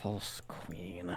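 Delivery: mumbled under breath. Voicing a character who mutters as Queen Ruby arrives: muttered under her breath. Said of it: "mutter under her breath".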